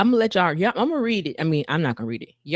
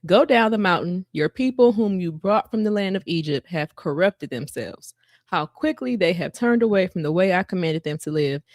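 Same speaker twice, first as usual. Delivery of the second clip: scripture reading. Acted. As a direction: read God's words with gravity.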